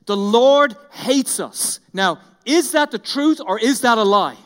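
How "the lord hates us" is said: slow and louder, each word dragged out; a preacher hamming up a grumble; mock bitter complaint. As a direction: voice the Israelites' sulky accusation. Quoting the grumbling Israelites.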